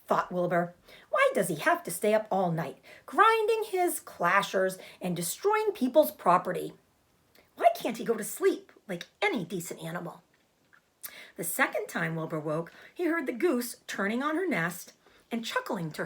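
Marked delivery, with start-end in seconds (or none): 1.1-10.2 louder, irritated pig grumbling; annoyed complaint. Acted. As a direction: complain about the noisy rat. Wilbur complains about Templeton.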